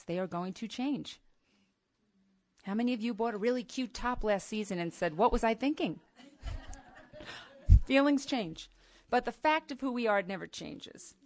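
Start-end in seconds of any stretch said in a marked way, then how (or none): 5.2-8.7 laughing mock regret. Mock regret over a bought top.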